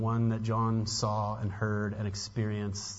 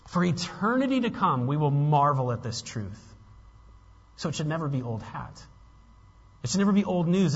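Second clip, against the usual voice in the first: louder, higher, urgent pulpit voice; impassioned preaching; 3 semitones higher, 4 dB louder than usual. Real, not acted. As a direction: press the congregation hard with conviction. Preaches at raised force.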